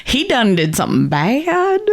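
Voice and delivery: put-on Southern accent. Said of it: "doing your Ted Lasso".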